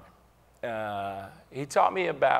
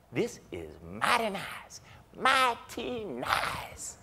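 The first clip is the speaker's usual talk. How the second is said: savoring; 5 semitones higher, 3 dB quieter, much slower than usual. Retold or imitated. Second ride, savoring luxury.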